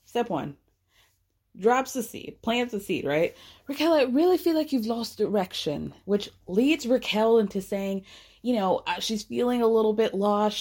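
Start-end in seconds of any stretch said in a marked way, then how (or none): 3.7-5.9 imitating Lisa. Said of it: "first she tells".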